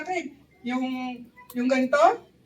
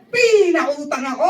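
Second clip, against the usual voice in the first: laugh-cry burst; 6 dB louder than usual. Real, not acted. Punchline, laughing and crying.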